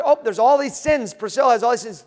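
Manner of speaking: the Father in heaven reading the charges against her, loud and high; God's voice. Acted. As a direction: boom out the list of sins as God. God reading out Priscilla's sins.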